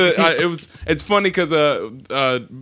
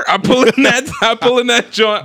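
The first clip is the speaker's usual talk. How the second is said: Jersey accent; 7 semitones higher, 5 dB louder than usual. Real, not acted. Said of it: "The accent coming back out".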